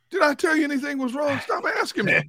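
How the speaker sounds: high, sharp mock snap; irritated retort. Husband snapping at family asking what's wrong, high and irritated. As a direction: brush off the nagging question. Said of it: "when I get quiet".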